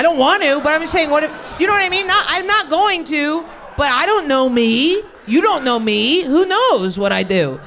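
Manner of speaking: loud, high, slowed laughing protest; laughing rant. Real, not acted. Comic explaining babysitting fears, laughing loudly. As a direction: wind it up, half shouting through laughs.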